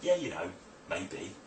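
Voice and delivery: half-hearted, noncommittal agreement; uncertain yes. Shown as a demonstration. Hypnotist imitating a client's weak buy-in, uncertain. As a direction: tail off softly into doubt. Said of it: "looking for certainty in that yes, not".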